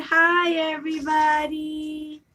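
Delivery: a slow, lightly voiced baby hello; voicing the baby. Mom voicing her baby daughter to viewers, slow and light. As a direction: drag it out gently, as if the baby speaks. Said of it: "She said".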